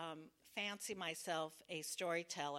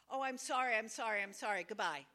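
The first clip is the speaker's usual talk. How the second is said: flustered apology; 5 dB louder, faster than usual. Retold or imitated.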